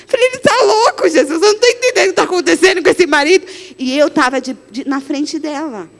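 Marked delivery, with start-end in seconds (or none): 0.3-3.5 exasperated aside. Retold or imitated.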